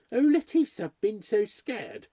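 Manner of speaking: high, loud opening that slows down; frightened. A narrator's reading. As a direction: exclaim it as the scared mistress. Maid quotes her frightened mistress.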